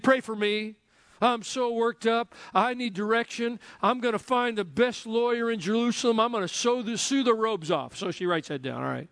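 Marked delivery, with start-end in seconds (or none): 0.0-8.0 higher, driven, worked-up Martha; type-A Martha. Acted. Martha asking for prayer, higher and pushy. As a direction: rattle off her plans, all business. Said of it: "she's type A".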